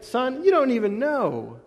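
a hint of a patient father setting his son straight; voicing God. Preacher voices God answering the Sadducees like a father. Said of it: "It's kinda like".

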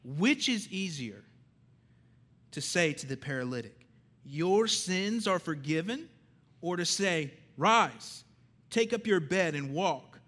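commanding proclamation from the pulpit; calling to attention. Real, not acted. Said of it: "I wanna call you to attention".

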